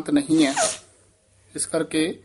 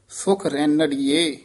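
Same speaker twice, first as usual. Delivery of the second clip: slow "ਸੁਖ ਰੈਣੜੀਏ", then rest; "ਸੁਖ ਰੈਣੜੀਏ" as a separate slow phrase; pause after; slower than usual. Shown as a demonstration. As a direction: draw out "ਰੈਣੜੀਏ" and stop. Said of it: "ਇੱਥੇ ਵਿਸਰਾਮ".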